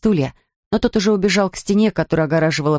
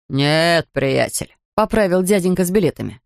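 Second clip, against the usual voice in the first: low, slow grumbling attendant; lightly voiced grumpy beach attendant; gruff ticket man; 4 semitones lower, slower than usual.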